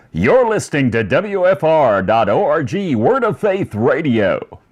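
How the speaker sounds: lightly put-on radio DJ station ident. Shown as a demonstration. Host showing off his voice on a station ID, light FM DJ voice. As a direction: slip into an FM DJ delivery, slowing on the station name. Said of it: "the F M D J voice".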